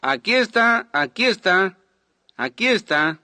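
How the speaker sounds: high, loud eager shout; excited calling out. Retold or imitated. Young man points out the hidden preacher to everyone, calling out excitedly. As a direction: call out to give him away, easing slightly each time. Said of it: "Y este dijo".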